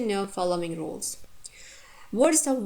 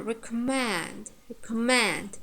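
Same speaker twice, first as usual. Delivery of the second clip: "recommend" with weight on final "mend"; "recommend" given as an example of ultimate stress; stress on last syllable. Shown as a demonstration. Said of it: "mand is ultimate".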